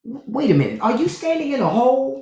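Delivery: high incredulous quote voice; lightly voiced movie line. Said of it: "that guy said".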